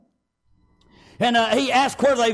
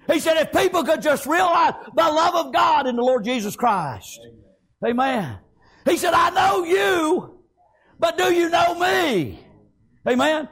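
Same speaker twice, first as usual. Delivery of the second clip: impassioned, raised-pitch sermon delivery; fervent preaching; 3 semitones higher than usual. Acted. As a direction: preach it hard, stretching the key words. Preaches at full force.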